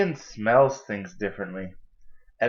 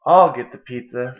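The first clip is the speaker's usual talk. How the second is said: eager offer; 9 dB louder than usual. Acted. Tara offers to fetch pizza.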